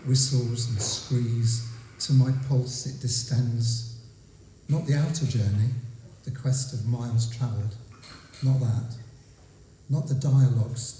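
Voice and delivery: measured poem recital with pauses between phrases; deliberate spoken verse, drawing out key words; poetry reading. Acted. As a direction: read it line by line, letting each image land. Reads own poem aloud.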